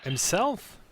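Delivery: high, loud shocked question. Real, not acted. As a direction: gasp it out in disbelief. Shocked reaction.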